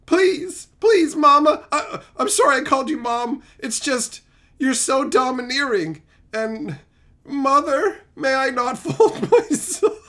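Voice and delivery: a touch of meek begging; hammed-up timid request; mock pleading. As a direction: plead like a cowed husband. Acted henpecked husband begging his wife.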